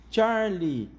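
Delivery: high, loud cry of the name; exclaiming. A narrator's reading. Mr. Wonka greeting the last child, loud exclaimed name. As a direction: call the name out with delight. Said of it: "exclamou o senhor Wonka".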